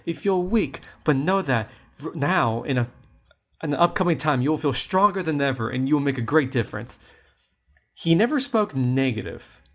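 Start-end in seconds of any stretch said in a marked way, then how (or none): 0.0-7.0 TV astrologer. Retold or imitated. Mimicking Walter Mercado's daily horoscope to viewers, lightly voiced and soothing. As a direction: imitate a TV psychic soothing the Virgos. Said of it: "So he'd be like".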